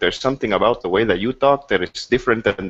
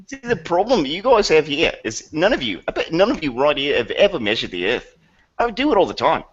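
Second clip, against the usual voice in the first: flat-earther voice; 7 semitones higher than usual. Pretend.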